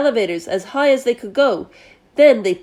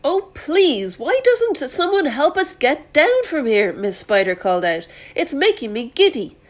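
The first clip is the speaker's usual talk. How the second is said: Miss Spider pleading; 4 semitones higher than usual. Acted.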